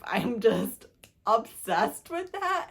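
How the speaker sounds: excited squeal. Real, not acted. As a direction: squeal it like a smitten fan. Gushing over the hero saying wife.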